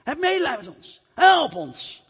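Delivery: high, pleading call. Acted. Lepers call to Jesus though forbidden, high pleading shout. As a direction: yell across the distance for help. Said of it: "En toch riepen ze".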